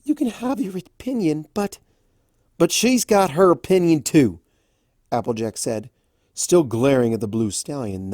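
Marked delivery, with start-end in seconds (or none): 0.0-1.8 stallion character voice. Acted. Raspberry voiced in fanfic reading. 2.6-4.4 Applejack voice. Acted.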